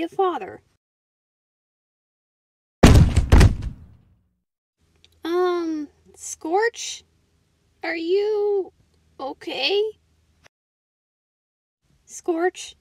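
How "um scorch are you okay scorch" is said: worried checking. Acted. Checks on partner who collapsed.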